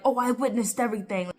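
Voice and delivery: fast, sarcastic parroting; mock her smug claim quickly; mocking quote. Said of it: "she really can't say, like".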